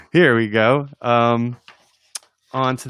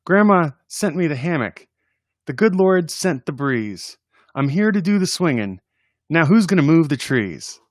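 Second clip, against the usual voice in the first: put-on lightly raised child voice; kid's voice; 5 semitones higher than usual. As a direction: read it as a cheeky kid. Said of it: "He goes".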